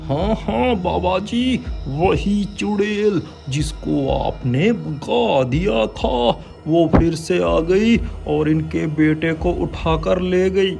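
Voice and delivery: high desperate voice; pleading father. Acted. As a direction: beg for your son. (बेटे के लिए गिड़गिड़ाता पिता)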